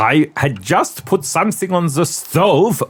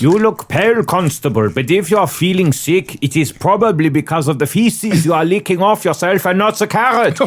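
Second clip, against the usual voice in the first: German detective; 4 semitones higher than usual. Acted. Acting detective in German accent.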